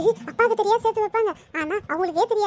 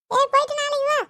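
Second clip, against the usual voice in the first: a touch higher, brushing off a beggar at the door; lightly voiced mother; 5 semitones higher than usual. Mother through the door, shooing off a beggar, lightly voiced. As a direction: shoo away a caller through the closed door.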